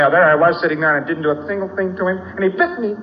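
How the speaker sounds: put-on fast, rising hurt little girl; lightly voiced little girl whining; aggrieved little girl. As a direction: rattle off the complaint like a wronged child. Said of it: "'Cause she say".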